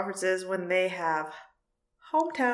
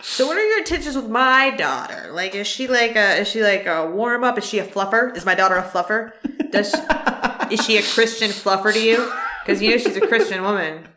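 stern father. Pretend. Mock dad interrogation.

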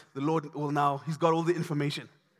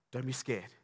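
soft reassurance; 7 semitones lower, 8 dB quieter than usual. Acted. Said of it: "Elisha says to his servant".

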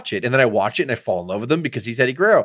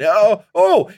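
higher, louder put-on groan of a hurt wrestler; mock pained groan; 8 semitones higher, 6 dB louder than usual. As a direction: ham up the sore-ribs moan. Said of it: "he was holding his ribs walking out".

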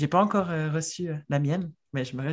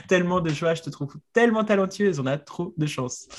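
a real, mildly gushing cry from the heart; heartfelt outburst; 2 semitones higher than usual. Real, not acted. Host gushing to the illustrator about her talent, heartfelt outburst. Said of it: "pardon, cri du cœur".

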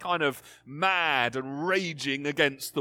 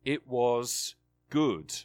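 reverent; slower than usual. Acted. Climactic retelling of Genesis.

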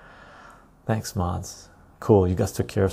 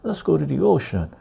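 much higher incredulous shout of refusal; refuse, appalled at the idea; indignant refusal; 8 semitones higher than usual. Retold or imitated. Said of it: "I was very pissed".

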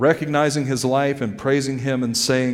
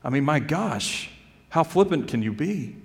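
retold indignation, pitched up but not shouted; indignant; 3 semitones higher than usual. Preacher recalls his reaction to an offensive comment, mildly indignant. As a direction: recount being mildly affronted, voice lifting. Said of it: "It made me very angry".

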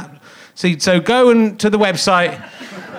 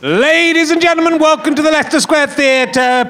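stage announcer. Real, not acted. Announcer welcoming host to theatre stage, big introduction. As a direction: project to the crowd, rising on the name.

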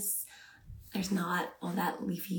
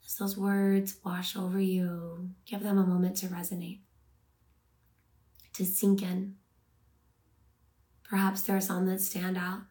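unhurried meditation guide, long pauses between phrases; measured, calming guidance with room to breathe; guided meditation. Acted. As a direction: ease listeners into rest, phrase by phrase. Leads reflection on the verse.

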